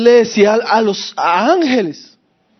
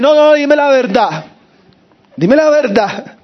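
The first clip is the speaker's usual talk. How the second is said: raised-pitch retold insistence; insistent demand; 5 semitones higher than usual. King to a prophet who flattered him, acted insistent. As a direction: press for an honest answer, acting it out.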